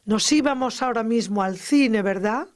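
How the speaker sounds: wishful lilt on "Nos íbamos", checking at "¿verdad?"; entonación de deseo. Shown as a demonstration. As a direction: float "Nos íbamos ahora mismo al cine" as a hypothetical wish, tag question after. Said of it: "estoy dando una entonación de deseo". ("Nos íbamos ahora mismo al cine" con entonación de deseo)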